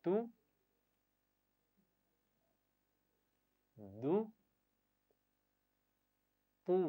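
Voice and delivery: تو and دو said with the tongue on the teeth and a short u; each syllable short and even; model syllables. Shown as a demonstration. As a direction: tap the tongue for تو, دو, تو. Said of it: "میری بات پڑھیے".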